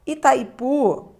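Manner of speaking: Itaipu drawn out slowly, syllable by syllable. Shown as a demonstration. Teacher to students, slowly sounding out a word. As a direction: spell out Itaipu slowly for the class. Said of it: "separando aqui as sílabas".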